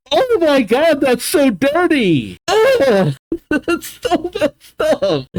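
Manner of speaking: high-pitched, appalled exclaiming; scandalised outrage. Real, not acted. Reader appalled at dirty indoctrination, scandalised outcry. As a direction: exclaim high, breaking into a laugh.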